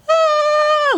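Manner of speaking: high, loud gasp of delight; joyful gasp. Retold or imitated. Mother seeing her baby on the ultrasound, high loud joyful gasp. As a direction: gasp as the baby appears on screen.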